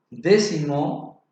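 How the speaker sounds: "décimo" said slowly, stress on dé; slow stress demo. Shown as a demonstration. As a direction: sound out "décimo" with weight on dé. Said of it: "lleva tilde porque corresponde a una palabra esdrújula".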